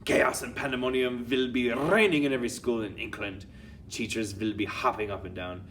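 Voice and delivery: lightly voiced villain witch speechifying. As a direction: relish the coming chaos.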